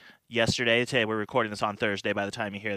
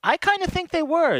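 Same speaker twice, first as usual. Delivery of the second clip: much higher and louder, insisting; emphatic insistence; 4 dB louder than usual. Real, not acted. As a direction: push back with emphatic conviction. Repeats claim after being doubted.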